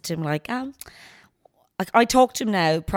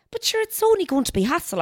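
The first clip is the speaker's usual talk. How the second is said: high protest; 12 semitones higher than usual. Retold or imitated. Protesting to husband.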